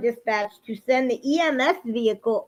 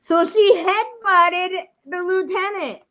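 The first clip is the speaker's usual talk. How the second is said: disbelieving; 6 semitones higher, 4 dB louder, slower than usual. Real, not acted. Restating in disbelief.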